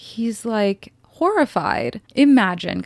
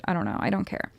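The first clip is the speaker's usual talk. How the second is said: softer, flat throwaway; dismissive mutter; 2 semitones lower, 6 dB quieter, faster than usual. Real, not acted. Podcaster brushing off the symbolism, dismissive. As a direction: shrug it off under your breath.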